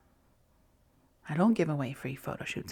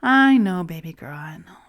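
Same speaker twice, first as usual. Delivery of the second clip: gentle parent; 2 semitones higher, 4 dB louder than usual. Pretend. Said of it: "gentle parent rather than to self-shame".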